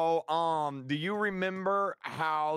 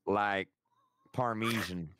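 much lower silly duck voice; 6 semitones lower, slower than usual. Pretend. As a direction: put on a goofy duck voice. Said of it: "Why do you sound like a duck?".

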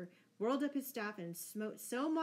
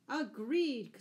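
raised, higher smiling agreement; smiling assent; 5 semitones higher, 6 dB louder than usual. A narrator's reading. Robin agrees to be godfather, smiling call. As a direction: agree out loud with a smile. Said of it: "smiled Robin".

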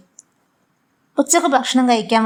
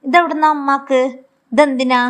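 stunned surprise; 4 semitones higher than usual. Acted. Husband opening mother's bundle of cash, startled and higher. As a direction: pitch higher, startled questions.

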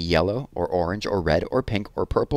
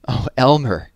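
louder gasping cry of his name; gasped exclamation; 3 semitones higher, 6 dB louder than usual. Acted. Old elephant gasping at Elmer after the joke. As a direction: gasp out his name, delighted. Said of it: "gasped an old elephant".

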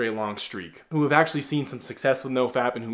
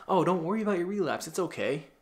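mock-soothing, lightly pitched-up reassurance; soft advice; 5 semitones higher than usual. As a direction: imitate someone gently letting you off the hook. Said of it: "that soft kind of advice".

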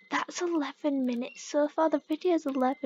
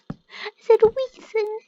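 much louder and higher, slow insistence; a hammed-up yell at the word reason; mock-angry shout; 7 semitones higher, 11 dB louder than usual. Real, not acted. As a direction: shout at your own croaky voice. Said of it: "I'm losing my voice".

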